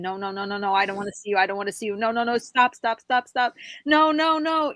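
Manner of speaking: rapid pleading building to high, loud cries; retold panicked scream. Retelling screaming in their head at the beings, mock panic. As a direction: imitate a mounting scream of refusal, ending high and loud. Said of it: "I started to scream".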